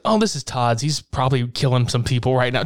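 casual, offhand imitation; breezy, unbothered delivery; nonchalant. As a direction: toss it off like it's nothing. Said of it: "Just so nonchalant".

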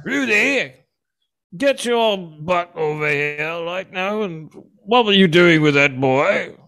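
high, slow sitcom-dad scolding; Bill Cosby. Acted. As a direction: drag out a mock telling-off. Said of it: "Bill Cosby comes like the".

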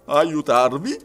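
loud, startled question; astonished exclamation. A narrator's reading. Servant echoing the detective's request, astonished. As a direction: echo it in open astonishment. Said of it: "esclamò Passepartout con gli occhi smisuratamente dilatati".

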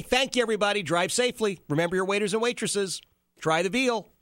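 playful showbiz sign-off; mock lounge comic sign-off. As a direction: parody a comedian closing his set. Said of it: "That's all he needed to say".

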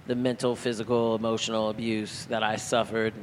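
matter-of-fact, like it's no big deal; blasé. Real, not acted. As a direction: casually list it off without weight. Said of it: "I say that so blasé".

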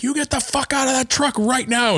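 very high playful yell; mock yell. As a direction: holler it at a friend driving in. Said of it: "I yelled 'cause I had the top down".

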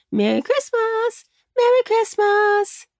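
high happy holiday call; joyful greeting. Acted. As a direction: cheer it across the land. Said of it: "voices could be heard saying".

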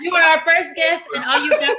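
laughing. Real, not acted. Teasing with laughter.

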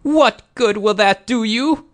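high, loud defensive challenge. A narrator's reading. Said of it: "she said in a louder tone".

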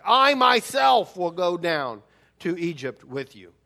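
"I myself" leaned on, slow and deliberate; emphatic I myself. Shown as a demonstration. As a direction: press hard on "I myself". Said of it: "it really should read because it's emphatic".

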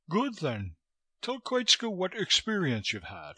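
high-pitched, brusque foreign interrogator; wheezy fat man, abrupt; Koitska, brusque. A narrator's reading. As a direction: question him in a high wheezy voice. Fat Koitska questions Chandler.

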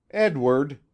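bright, lilting call of his name; gay, teasing call of Edward; gaily. A narrator's reading. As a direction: call him playfully. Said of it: "she said gaily".

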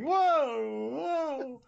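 high hammed-up cries of a swung villain; mock panicked whoa. Villain swung by the helmet, squealing high. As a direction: yelp it high while being swung around. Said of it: "swinging Mecha Skeletor around like".

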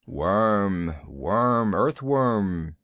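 lightly voiced panther, each insult falling in pitch; a hint of weight on each separate word; reluctant panther. A narrator's reading. Bagheera reports monkey insults to Kaa, lightly voiced low panther.

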